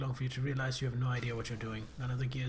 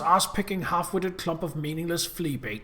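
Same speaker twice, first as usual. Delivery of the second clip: louder, spitting string of insults; furious demon boss; 3 dB louder than usual. Acted. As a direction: rage at the fool who broke it. Boss rages at the grinder.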